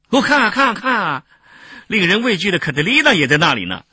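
high, loud, excited exclamation; excited calling out. A narrator's reading. Lucretius pointing out Catilina in the temple crowd, excited. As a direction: call friends to look, voice shooting up.

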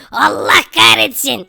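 slow, drawn-out cry of frustration; cursing shout. Real, not acted. Player falling into lava, cursing shout. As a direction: curse as you drop.

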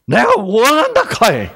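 Jesus in Gyeongsang dialect, calling out earnestly. Shown as a demonstration. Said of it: "경상도 말이 최고예요".

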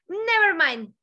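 quoting a singer. Shown as a demonstration. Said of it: "citando a Adele".

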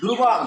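"ধ্রুবম" with a closing m, falling; demonstrated pronunciation. Shown as a demonstration. Teacher answers her own question, "ধ্রুবম" ending in m. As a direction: end "ধ্রুবম" firmly on the m sound. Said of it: "এবার উচ্চারণ হবে কি".

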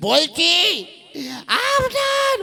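high cracking yell; strained shout. Acted. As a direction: shout till the voice breaks high. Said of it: "গলা ভেঙে গেছে চেঁচাতে চেঁচাতে". (চিৎকারে গলা ফেটে যাওয়া)

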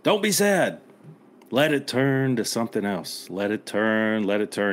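lightly voiced film hero urging on; quoting Jed Eckert. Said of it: "He's like".

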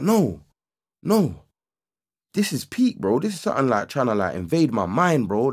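high-pitched pleading refusal; retold distressed protest. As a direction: act out refusing to give in. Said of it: "I felt like crying".

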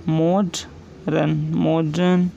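teacher slowly dictating मॉडर्न; slow dictation. Shown as a demonstration. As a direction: draw out मॉडर्न for the class to write. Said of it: "next है मॉडर्न".

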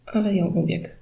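usual speaking voice

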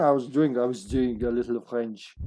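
a hammed-up TV French accent; playful fake French, heavy R's; mock French accent. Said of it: "You have a very German accent right now".

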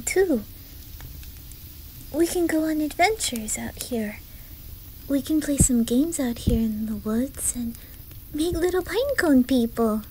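put-on livelier, lifted childlike enthusiasm; eager excitement. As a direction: share play plans with growing eagerness. Eagerly planning games with new friend.

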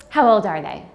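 light imitation of a nosy lady; chatty stranger. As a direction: lean in like a curious stranger. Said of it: "wants to talk".

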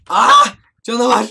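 high shriek then yelled monster; jump-scared yelp and cry; real fright scream; startled scream. Real, not acted.

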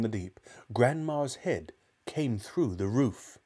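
put-on measured children's storybook reading; story narration. A narrator's reading. Narrator telling of George's trouble, storytelling. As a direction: read the tale aloud with care.

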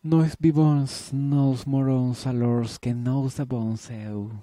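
recitado muy lento, nervioso, con la voz alta y temblorosa. Acted. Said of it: "Su voz tiembla". (recitación trémula, alargando cada palabra)

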